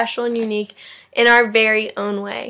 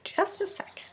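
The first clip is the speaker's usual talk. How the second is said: playful whispered tease; 9 semitones higher, 13 dB quieter than usual. Real, not acted. Teacher makes the class wait for her poem, whispered. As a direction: whisper it, building suspense.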